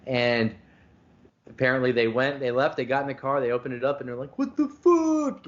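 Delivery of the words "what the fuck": high, slow, drawn-out what the fuck; outraged disbelief. Retold or imitated. Buyers opening the bag find almost no weed, stunned outrage. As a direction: stretch it out in shocked outrage.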